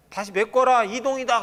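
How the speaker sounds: a sergeant calling the troops to move; barked army order. Retold or imitated. Officer ordering soldiers, mock shout.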